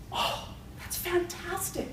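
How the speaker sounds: slow, soft, high gasp of relief; acted breathless joy from the hopeful husband; hushed delight. Hopeful husband hears the rabbi's news.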